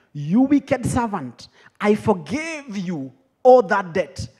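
slow, emphatic acted reproach; mildly indignant master passing judgment; stern rebuke. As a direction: scold the servant word by word. Master rebukes the wicked servant.

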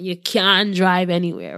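a quick, half-hearted Jamaican accent; lightly done Jamaican accent. Shown as a demonstration. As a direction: toss off the line in a playful Jamaican accent. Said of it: "I'm gonna say it in a Jamaican accent".

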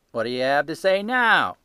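loud, high-pitched market salesman; a stall keeper showing off his ledger, loud and sure; gruff salesman. Acted. Salesman gloating.

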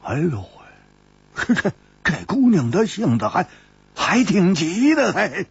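lightly voiced frowning grumble; frowning Hu Tiehua. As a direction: grumble about the hasty girl. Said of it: "胡铁花皱了皱眉说".

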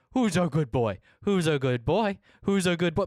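put-on sing-song who's a good boy; pet baby talk. Streamer to game dog, cooing baby talk. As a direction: coo at the dog like a puppy owner.

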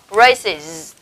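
"Braces" with the ending sounded as -iz; IS plural ending. Shown as a demonstration. Teacher repeating the example for students, "Braces" ending in -iz. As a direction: model "Braces" in two clear syllables. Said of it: "chúng ta sẽ đọc thành âm is".

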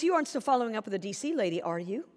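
easygoing reassurance to a trusted agent; breezy, kind. Shown as a demonstration. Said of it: "Now, mine was".

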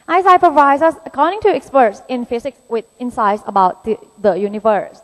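slow, careful reading of an exam passage; slow deliberate English reading; reading aloud. Shown as a demonstration. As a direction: read the test sentence out word by word. Reads exam sentence aloud.

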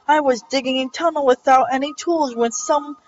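hammed-up, stretched dialogue reading; overdramatic reading. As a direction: ham up every line of dialogue. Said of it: "make everything over dramatic".

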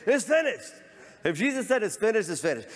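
high emphatic proclamation; emphatic cry. Real, not acted. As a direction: ring it out triumphantly. Emphatic preaching shout.

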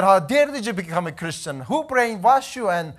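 mildly acted outraged mother scolding her son; angry mom. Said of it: "She got angry and she got mad".

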